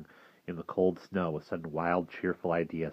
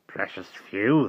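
put-on slow, bitter old man; 2 semitones higher, 5 dB louder, slower than usual. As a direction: drag it out bitterly. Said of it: "the walker said bitterly".

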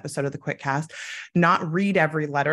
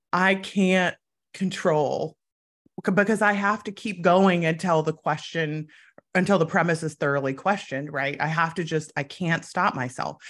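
bro voice. Retold or imitated. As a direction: play it like a chill gym bro. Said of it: "in my bro voice".

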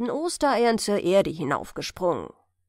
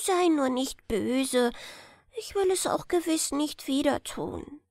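higher, coaxing little hare; coaxing grandson; 4 semitones higher than usual. Acted. Little hare wheedling his grandfather for a story, high.

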